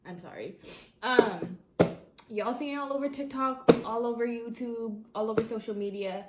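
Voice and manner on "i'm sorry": soft, much lower sorry; quiet apology. Real, not acted. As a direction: murmur it sheepishly. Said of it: "pronouncing it wrong".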